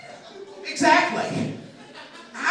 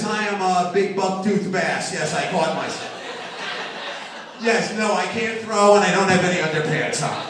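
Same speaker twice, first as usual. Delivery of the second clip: buck-toothed fish impression; 5 dB louder than usual. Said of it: "like this".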